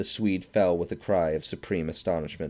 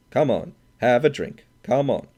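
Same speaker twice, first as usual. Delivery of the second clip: put-on loud, pushy drunk's call, pitched up; drunken urging; 5 semitones higher, 6 dB louder than usual. A narrator's reading. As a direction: press them boisterously to drink. Drunk Swede pushing drinks.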